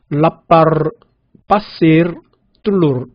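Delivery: 라빠르, 빠시르, 뚫루르 with the final 르 clearly sounded; Indonesian final r. Shown as a demonstration. Teacher showing the Indonesian way, final r clearly sounded. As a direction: sound the last r plainly. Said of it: "인도네시아는 끝에 있는 R 발음을 정확하게".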